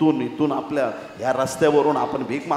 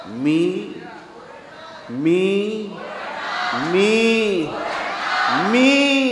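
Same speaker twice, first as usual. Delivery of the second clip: building defiant cry; 5 semitones higher, much slower than usual. Acted. Blind man refusing to be hushed, building cry.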